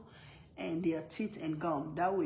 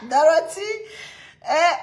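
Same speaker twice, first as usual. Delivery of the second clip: calling out; 10 semitones higher, 13 dB louder than usual. Real, not acted. Calling out a viewer.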